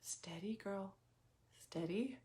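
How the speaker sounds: barely voiced whisper to herself. Shown as a demonstration. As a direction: breathe the words out softly, no voice. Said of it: "And I say it out loud now".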